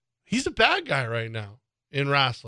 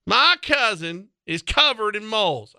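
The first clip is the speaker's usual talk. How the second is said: high, slow nasal redneck line; hammed-up hick voice; Larry the Cable Guy bit; 6 semitones higher than usual. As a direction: deliver it like a hick comic. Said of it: "It's an old Larry the Cable Guy bit".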